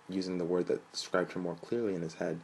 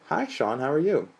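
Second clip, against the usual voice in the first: higher, sing-song mother's voice; melodic mother; 8 semitones higher, 7 dB louder than usual. A narrator's reading. Mother greeting her son by phone, sing-song. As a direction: let it lilt like a song. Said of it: "His mother's melodic voice sang across the phone".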